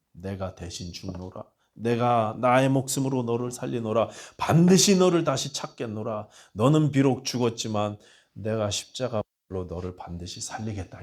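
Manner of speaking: a lightly voiced divine promise rising to a proclamation; God swearing to save his people; God's vow.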